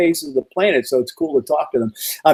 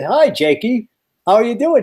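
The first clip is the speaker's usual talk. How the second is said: higher-pitched, lightly put-on hello; retold upbeat greeting to a kid; acted friendly greeting; 7 semitones higher than usual. Acted greeting to an Amish boy.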